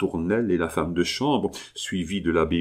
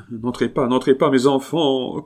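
voice broken by sobs; 6 semitones higher, 4 dB louder than usual. Acted. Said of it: "d'une voix entrecoupée de sanglots".

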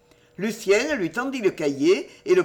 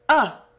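short, louder sigh of relief; relieved "ah"; 6 semitones higher, 6 dB louder than usual. A narrator's reading. Lucienne breathing again at her friend's answer, relieved. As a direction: let out a relieved exclamation. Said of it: "qui respira".

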